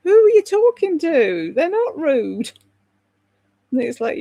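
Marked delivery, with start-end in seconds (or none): 0.0-2.5 loud, high mock outrage; indignant retort. Russ defending the English against a rude tourist, mock loud outrage. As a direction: snap back in the defence of the English. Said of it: "And he's like".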